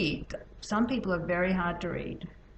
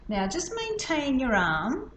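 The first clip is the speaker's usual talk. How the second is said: calm instruction; 4 semitones higher than usual. Shown as a demonstration. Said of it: "And I say".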